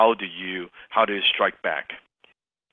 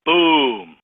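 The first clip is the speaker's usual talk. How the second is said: punchy boom; 3 semitones higher, 4 dB louder than usual. Shown as a demonstration. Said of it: "you're gonna say boom".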